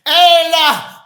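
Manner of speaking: "Ella" said EL-lah, ringing out; Hebrew pronunciation. Shown as a demonstration. Preacher teaching the Father's Hebrew name, "Ella" pronounced EL-lah. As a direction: pronounce "Ella" as EL-lah, two firm syllables. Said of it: "that's what the word is".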